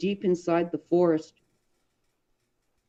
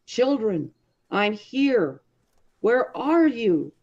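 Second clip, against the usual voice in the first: raised voice calling into the forest; 5 semitones higher, slower than usual. Acted. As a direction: call to the children, a little higher. Calling to lost children.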